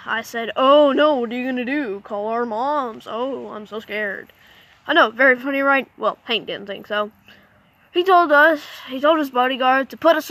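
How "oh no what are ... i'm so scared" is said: sarcastic mock fear. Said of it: "me being the smart aleck".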